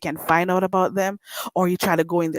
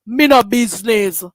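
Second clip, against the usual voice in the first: Jamaican patois, mock dismissive; lightly voiced Jamaican shrug-off; patois quote; 5 dB louder than usual. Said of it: "your office say".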